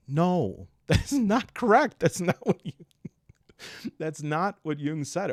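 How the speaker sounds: high, loud, laughing objection; can't help laughing while objecting; laughing correction. Real, not acted. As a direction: protest through laughter.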